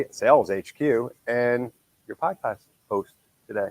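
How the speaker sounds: stuffy nose from a cold; nasal, blocked-nose voice. Real, not acted. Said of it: "excuse my nasally voice".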